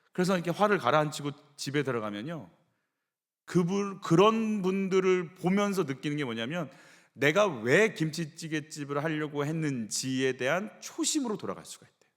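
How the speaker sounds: ordinary delivery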